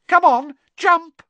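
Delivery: high, loud spiteful taunt; taunting mermaid. Acted. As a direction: jeer at him from above. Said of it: "she giggled maliciously".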